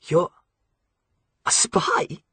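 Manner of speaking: startled. A narrator's reading. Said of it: "James was obviously startled".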